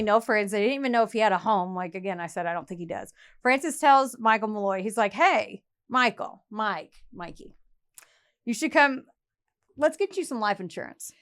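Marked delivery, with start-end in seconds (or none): 5.1-11.1 a hint of a sly persuader; mock coaxing. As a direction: draw out the name and sidle up casually. Undertaker coaxing his mark.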